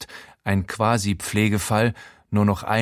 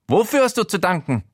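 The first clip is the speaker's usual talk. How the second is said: put-on high, slightly loud old-man voice; a fussy, nosy voice pitched up; Showalter's voice; 10 semitones higher, 3 dB louder than usual. Housemate Showalter startles the naked narrator, high.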